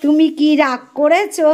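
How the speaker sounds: slow, drawn-out teasing question; slow mock-plaintive asking; put-on questioning. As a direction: stretch it out in mock concern. Teasing the crying girl with questions.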